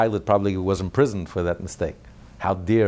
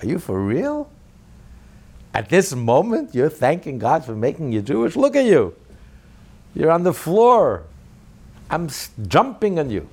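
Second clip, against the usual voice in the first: Nazi guard; 6 semitones higher, 4 dB louder than usual. Retold or imitated. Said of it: "He said".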